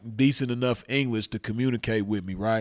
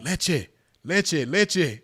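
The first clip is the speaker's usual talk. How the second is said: retold scream; 5 semitones higher, much slower than usual. Maced man begging bystanders for milk, retold scream. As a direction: imitate a frantic cry for milk. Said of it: "I was screaming. I was like".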